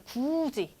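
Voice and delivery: "굳이" run together as gu-ji; linked pronunciation. Shown as a demonstration. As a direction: say "굳이" linked, drawn out as guu-ji. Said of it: "연음 현상에 따른 그런 발음 방법".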